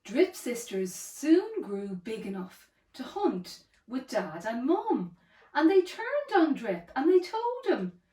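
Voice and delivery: lively, rhythmic storybook reading; children's story narration. A narrator's reading. Storyteller reads a dinosaur tale to a child, lively narration. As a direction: read it as a rhyming picture book.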